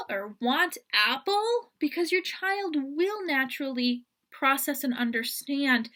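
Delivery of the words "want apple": "want apple?" slow, higher and rising; simplified parentese. Shown as a demonstration. Parent asking a toddler a simplified question. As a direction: drawl it to a toddler. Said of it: "just saying".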